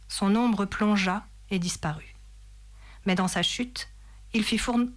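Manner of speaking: measured literary read-aloud; story narration. A narrator's reading. Reader telling listeners of the advancing enemy, story narration. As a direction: narrate the battle as from a novel.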